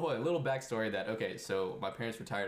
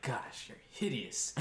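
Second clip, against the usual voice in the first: stern mom; 3 semitones higher, slower than usual. Retold or imitated. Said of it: "with the sternest, like, mama, Asian mama looking face".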